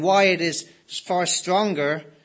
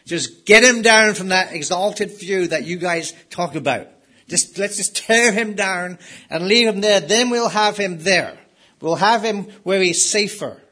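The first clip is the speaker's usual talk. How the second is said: louder, scornful voice of the unbelieving world; mocking unbelievers; 2 semitones higher, 6 dB louder than usual. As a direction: sneer it like the doubters tearing him down. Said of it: "the unbelieving world will do all they can".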